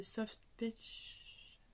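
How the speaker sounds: "Soft Peach" said slowly and breathily, in English with a French accent. Real, not acted. Vlogger reading out a pencil colour name, in French-accented English. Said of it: "mon accent anglais pourri".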